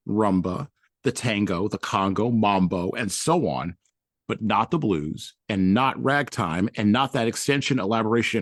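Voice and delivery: emphatic read from a book; reading aloud. Acted. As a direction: read out the list deliberately, landing each item.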